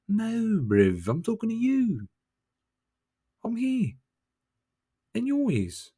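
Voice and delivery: high insistent call-out. Acted. Telling the viewer he's talking to them, high insistent. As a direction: jolt them awake with a sharp high pitch.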